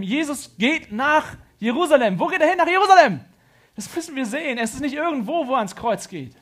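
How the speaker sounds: loud, high, impassioned preaching; full-force preaching. Real, not acted. Preacher urging listeners toward Jerusalem and the cross, full-force preaching. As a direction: drive it home at the top of your voice.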